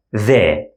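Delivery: the with a voiced th as in this. Shown as a demonstration. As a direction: buzz the th. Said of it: "voiced T H sound".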